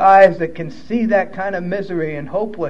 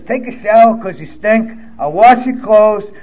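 gruff orders; 4 dB louder than usual. Retold or imitated. Gruff old-timer's orders, quoted.

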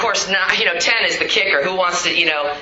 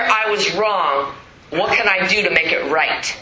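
slow sincere admission; slower than usual. Shown as a demonstration. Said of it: "They wanna hear".

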